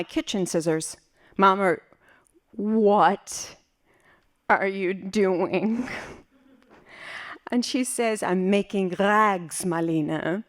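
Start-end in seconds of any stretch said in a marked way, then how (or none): 1.4-5.9 slow, word-by-word disbelief; incredulous question. Acted. Daughter seeing mother cut up her nightgown, incredulous question. 8.2-10.4 unbothered mother. Acted. Mother explaining rags to panicking daughter, unbothered reply. Mother's calm answer during emergency.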